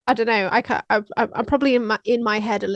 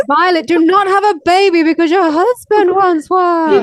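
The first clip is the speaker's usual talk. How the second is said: mock stern; 6 semitones higher, 9 dB louder than usual. Mock lecture to the child.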